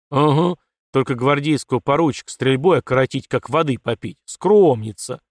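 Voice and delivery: ironic, loud on the last word; mocking snort. Father teases his daughter's modesty, snorting. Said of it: "фыркнул полковник в ответ".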